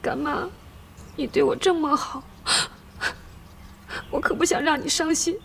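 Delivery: pleading through tears; tearful appeal with broken pauses. Acted. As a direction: speak between sniffles and caught breaths. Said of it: "你别哭了啊".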